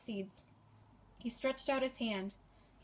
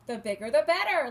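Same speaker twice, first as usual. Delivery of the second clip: laughing; 4 semitones higher, 7 dB louder than usual. A narrator's reading. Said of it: "laughed the king".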